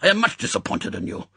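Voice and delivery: brisk, scolding host; lightly voiced impatient rebuke. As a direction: chide him like a disappointed teacher. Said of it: "Tiger hissed impatiently".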